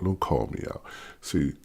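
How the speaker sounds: ordinary talk, nothing marked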